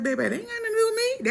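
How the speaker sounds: sassy dismissal to his mother; sassy high brush-off. Retold or imitated. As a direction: wave it off as not your business. Retold sassy reply to mom.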